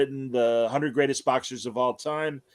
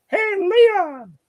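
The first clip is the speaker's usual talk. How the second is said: much higher, louder friendly call across the room; a singer calling out; 7 dB louder than usual. Retold or imitated. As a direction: hail an old friend across a trade show floor. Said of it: "we hear this very recognizable voice go".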